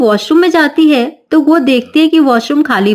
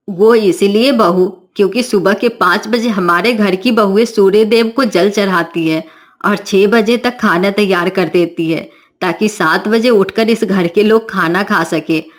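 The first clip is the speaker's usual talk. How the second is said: lecturing mother-in-law; 3 semitones lower than usual. Acted.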